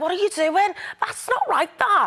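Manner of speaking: Liverpudlian accent, pitched high. Called out in a round of accents, doing a Liverpudlian accent. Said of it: "First up, Liverpudlian".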